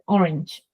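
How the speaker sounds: the N of "orange" pulled back toward the teeth and palate; palatal N. Shown as a demonstration. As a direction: say "orange", N made against the palate. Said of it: "Orange is a palatal sound".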